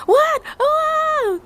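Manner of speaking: high, loud startled cry; startled shout. Retold or imitated. Scared girl yelping at the warning. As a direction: jump with fright. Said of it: "I'm so scared".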